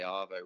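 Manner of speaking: "Arvo" said ah-vo, short and light; lightly voiced Aussie "Arvo"; Aussie slang arvo. Shown as a demonstration. Friend repeating an Aussie word he avoids, saying arvo. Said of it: "they say".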